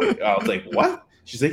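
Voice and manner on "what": high-pitched startled question; retold disbelief. Man hearing how she first saw him, retold disbelief. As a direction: shoot up in pitch, mock taken aback. His shock at her remark, retold.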